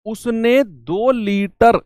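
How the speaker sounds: slowed down, leaning on each word; deliberate teacher pause; slow emphasis. Shown as a demonstration. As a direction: stretch it out so the kids catch it. Teacher stresses added amount.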